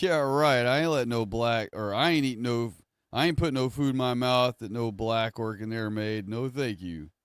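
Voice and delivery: breezy, dismissive, fading at the end. Shown as a demonstration. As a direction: wave it off as absurd. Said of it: "Laugh and be dismissive about it".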